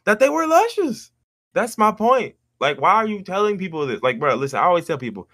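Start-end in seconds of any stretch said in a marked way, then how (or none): 0.1-1.1 high, slow hammed-up luscious; mock blurt. Shown as a demonstration. To his friend, showing what not to say, mock high blurt. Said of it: "But guess what I didn't say?".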